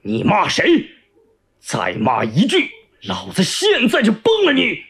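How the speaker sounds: menacing challenge, rising in pitch at the end; angry threat. Acted. Company commander with drawn pistol to prisoner, angry threat. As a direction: threaten them, building to an outburst.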